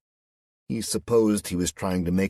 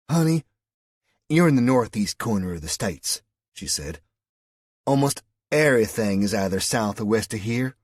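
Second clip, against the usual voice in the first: high, loud West Virginia lilt; Southern woman amused at a foreigner; 4 semitones higher, 6 dB louder than usual. A narrator's reading.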